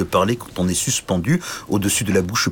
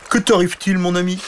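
dragon curieux; 10 semitones higher, 3 dB louder than usual. Acted. Dragon curieux parle au chevalier.

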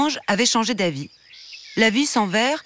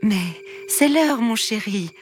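higher, slow, gentle coaxing; coaxing mother; 3 semitones higher, slower than usual. Acted. Queen to her son at bedtime, slow gentle coaxing. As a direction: coax him to bed tenderly. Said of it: "marmonna la reine-mère".

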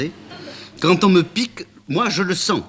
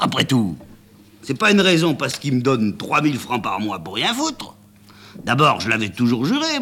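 a lightly voiced chauffeur ranting, pitch jumping on words; a sulky servant airing his grievance; grumbling chauffeur; 7 semitones higher than usual. A narrator's reading. Chauffeur's rant, voiced figure.

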